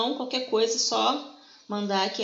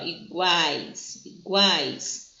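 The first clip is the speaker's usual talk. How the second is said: "iguais" with the middle A leaning strongest; stress on the A; 3 semitones lower, much slower than usual. Shown as a demonstration. Teacher showing the strong vowel of a triphthong to students, stressed. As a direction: lean on the A in "iguais". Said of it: "A mais forte é a do meio, é o A".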